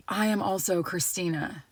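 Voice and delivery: soft, measured, awed delivery; hushed revelation. Retold or imitated. Older woman revealing she shares the name, hushed revelation. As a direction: imitate a quietly moved confession.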